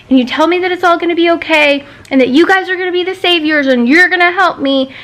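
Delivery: mocking reassurance. Patient throwing clinic's promises back, mocking. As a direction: rattle off empty promises with scorn.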